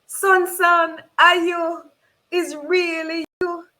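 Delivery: high, loud cry of disbelief at finding her son; a mother who can't believe her eyes; stunned recognition. Acted. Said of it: "I say to the boy".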